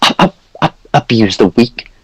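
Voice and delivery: put-on high, fussy old priest voice; jolly priest NPC. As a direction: play a pompous, chatty cleric. High priest flustered and defensive.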